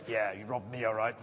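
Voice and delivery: low, quiet grumbling retort; sarcastic crowd reply. Retold or imitated. Crowd member sneering back at the tax collector, low and quiet. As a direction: mutter it back as a resentful townsman. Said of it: "And I sort of read then".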